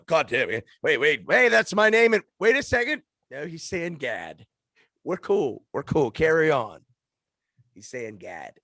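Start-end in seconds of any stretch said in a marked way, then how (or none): 0.0-6.8 mock God, higher and louder, startled then relaxed; hammed-up God reacting; God's voice. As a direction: play God hearing his name, then shrugging it off.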